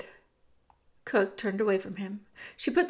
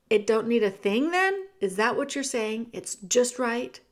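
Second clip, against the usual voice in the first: loud, urgent cook shooing the mouse; Cook's rough voice; 3 dB louder than usual. Acted. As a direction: push him to run, now. Cook fishing for praise.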